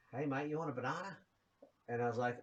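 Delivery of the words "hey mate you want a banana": lightly put-on Australian accent; amateur imitation of an Australian; bad Australian accent. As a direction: attempt a rough Australian accent, badly. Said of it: "this is my really bad Australian accent".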